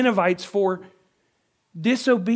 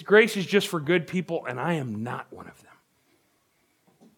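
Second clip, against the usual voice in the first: slow, resigned and ashamed; dejected; 3 semitones lower, slower than usual. Shown as a demonstration. Preacher voicing a hopeless sinner, slow and dejected. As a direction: say it like you've given up on yourself. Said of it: "it's more like this".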